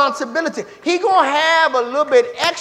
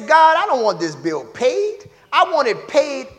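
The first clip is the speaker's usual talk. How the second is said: loud, rising, pleading prayer; a churchgoer praying loudly to God; mock bold prayer; 3 semitones higher, 6 dB louder than usual. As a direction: pray it big and demanding. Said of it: "you come up in there and you say".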